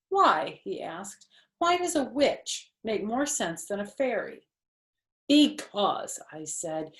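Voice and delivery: lively storybook read-aloud with voiced characters; animated children's book narration. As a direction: read it like story time for young kids. Reading Junie B. Jones aloud.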